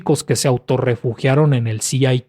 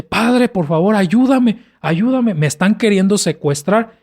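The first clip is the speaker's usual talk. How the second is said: lightly voiced child pleading, higher pitch; 5 semitones higher than usual. Boy begging his father for help, lightly acted plea. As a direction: plead urgently, like a retold boy's cry. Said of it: "el niño empieza a gritar".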